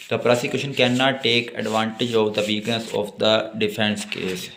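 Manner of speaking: reads the statute slowly, word by word; slow dictation. Acted. Teacher slowly dictating law text to note-taking students. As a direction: dictate it so students can write.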